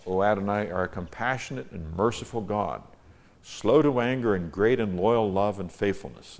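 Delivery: declaimed psalm, key words lifted; measured, emphatic recitation; emphatic scripture reading. Acted. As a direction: read the verse out as a prayer to God. Reads own psalm translation.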